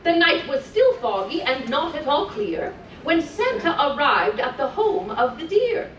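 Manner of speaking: put-on lilting read-aloud for small children; sing-song storytelling voice; storybook reading. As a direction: read it like a bedtime story to little ones. Reading continues.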